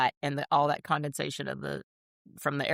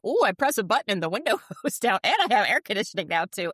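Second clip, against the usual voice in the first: retold delight; 6 semitones higher, 4 dB louder than usual. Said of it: "I was like".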